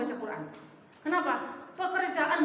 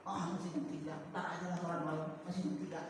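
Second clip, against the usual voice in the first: softer, lower sleepy mumble; drowsy excuse; 7 semitones lower, 8 dB quieter, faster than usual. Retold or imitated. Preacher imitates a believer dozing off, softer and lower. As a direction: mumble it like someone half asleep.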